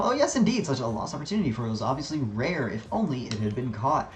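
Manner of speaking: softly voiced, lightly acted henchman; quiet, precise mock regret over a lost prize; fussy henchman. Henchman reporting a lost opportunity to Gorgon, lightly fussy. Reads henchman Snidel's dialogue.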